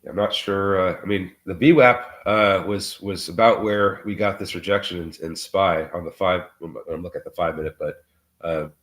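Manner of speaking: muffled, sick voice, stuffy and dull; through a wall. Real, not acted. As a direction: sound like you're behind a wall. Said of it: "so that I don't sound like, uh, I'm speaking through a wall".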